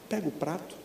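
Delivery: put-on dad speaking gently to his child; very quiet. Shown as a demonstration. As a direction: drop the voice right down. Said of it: "É assim que o papai vai falar agora".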